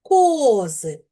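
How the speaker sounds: "Кози" with a long, stressed о; "Кози", first syllable drawn out and emphasised. Shown as a demonstration. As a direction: stretch the о in "Кози" to show the stress. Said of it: "щоб ненаголошений звук став наголошеним".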